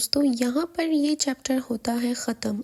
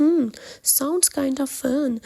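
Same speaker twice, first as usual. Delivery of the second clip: slow, drawn-out interested hum; intrigued; 2 semitones higher, much slower than usual. Acted. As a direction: savor the idea slowly. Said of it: "کہتا ہے interest کے ساتھ". (دلچسپی سے آہستہ آہستہ)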